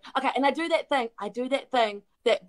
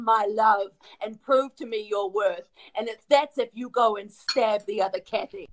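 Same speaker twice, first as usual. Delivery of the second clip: louder, scornful scolding; cold cruel parent; 3 dB louder than usual. Acted. Fake mother scolding Kathy, mild scorn then a louder edge. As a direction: tear the child down.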